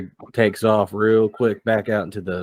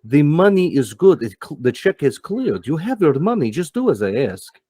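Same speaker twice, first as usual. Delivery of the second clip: higher, louder, insistent boss voice; pushy Max; 6 semitones higher, 3 dB louder than usual. Acted. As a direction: lean on him, you paid and you want it done. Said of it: "And Max is like".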